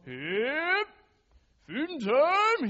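high, loud call across the barn; farmer calling cows. Retold or imitated. Farmer calling his cows at feeding time, high and loud. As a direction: sing it out to the herd. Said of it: "he'd walk in the barn and he'd go".

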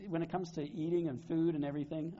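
ordinary talk

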